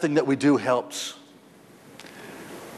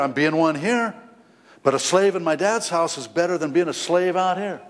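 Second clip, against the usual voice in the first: higher, pleading voice of a hungry son; prodigal son's musing; 5 semitones higher than usual. Acted. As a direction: voice the broke son talking himself into going home, higher. Voicing the prodigal son's thoughts.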